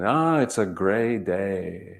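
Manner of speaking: slow, lightly imitated Russian accent of an old grandmother; hint of Russian accent, drawn out and slow; thick Russian accent. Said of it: "she said in her thick Russian accent".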